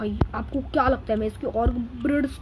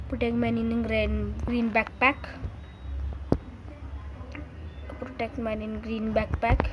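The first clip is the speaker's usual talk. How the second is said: slow reading; 3 semitones lower, 7 dB quieter, much slower than usual. Real, not acted. Reading mission text slowly aloud.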